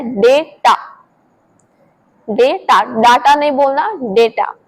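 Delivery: डेटा repeated with 'ay'; drill. Shown as a demonstration. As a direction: contrast डेटा with डाटा. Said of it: "ई का sound आना है".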